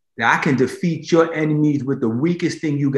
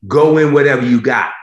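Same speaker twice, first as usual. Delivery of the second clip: God pushes back, louder and firm; firm command; 7 dB louder than usual. Acted. Preacher voicing God answering Gideon, firm and loud. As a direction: insist he go anyway.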